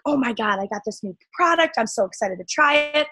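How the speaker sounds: gushing over a new product; imitating an excited seller; mock excited. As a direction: play it bubbly and eager. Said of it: "you're like".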